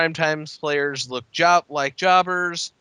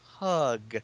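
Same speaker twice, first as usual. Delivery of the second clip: sharp shout of hey; 8 dB louder than usual. Retold or imitated. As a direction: call out loudly from ringside. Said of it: "he shouts from the floor".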